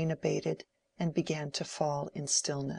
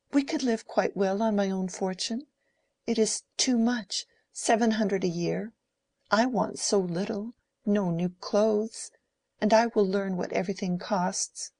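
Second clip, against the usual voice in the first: put-on higher, louder pleading like a child; sobbing, childlike; 5 semitones higher, 4 dB louder than usual. A narrator's reading. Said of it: "in a sobbing, childlike way".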